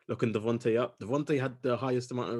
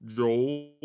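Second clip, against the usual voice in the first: stretched-out host introduction; announcer intro; 3 semitones higher, 3 dB louder, much slower than usual. Acted. Introducing the show and hosts, mild announcer drawl. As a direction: announce the show name grandly. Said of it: "I hate the way I say that".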